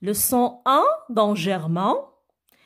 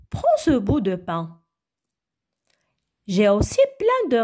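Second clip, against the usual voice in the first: reading dialogue aloud. Acted. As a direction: read a children's dialogue phrase by phrase. Reads the lesson text aloud.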